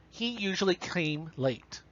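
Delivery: slow, plain and to the point; direct. Shown as a demonstration. Teacher reads the correct sentence, slow and direct. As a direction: say it straight. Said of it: "one sounds direct, to the point".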